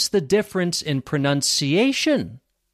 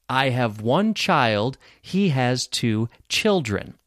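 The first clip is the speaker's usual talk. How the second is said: slow but joined-up, slightly lower; repeat-after-me model; 4 semitones lower than usual. Shown as a demonstration. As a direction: say it slowly as connected sentences for learners. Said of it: "repeat after me".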